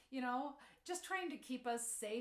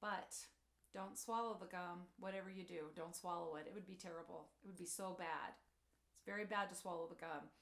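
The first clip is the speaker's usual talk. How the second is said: low, hushed, ominous warning; laying it on thick; 4 semitones lower, 3 dB quieter than usual. Retold or imitated. Mother warning her four-year-old son about gum, low and ominous. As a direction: make swallowing gum sound like a disaster, quietly. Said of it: "I laid it on pretty thick".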